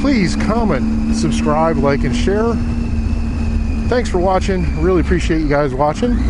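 muffled, close-miked helmet sound; inside a helmet. Real, not acted. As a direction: talk from inside a motorcycle helmet. Outro recorded in different setting.

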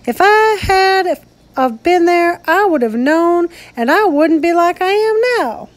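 high, near-cracking voice. A narrator's reading. Misfit insisting to the old lady, voice high and near cracking. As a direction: let the voice climb as if about to crack. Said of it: "he said in a high voice".

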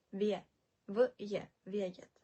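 вє split into "v, ye", then Вєєт as "vye-yet"; soft "ye". Shown as a demonstration. Teacher correcting learners, вє sounded out as "v-ye". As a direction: break down вє with a clear y-glide. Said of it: "не будемо читати як веєт".

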